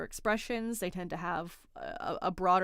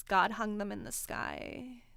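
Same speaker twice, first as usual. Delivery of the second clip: slow, drawn-out mean-girl mimicry; mean girl vocal fry; 3 dB quieter, slower than usual. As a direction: drag it out in a creaky, condescending imitation. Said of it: "on the voice and the vocal fry".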